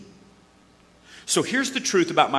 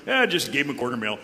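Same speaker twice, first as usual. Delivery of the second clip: sheepish dad; 3 semitones lower, much faster than usual. Retold or imitated. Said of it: "what the mom says when Dad comes in".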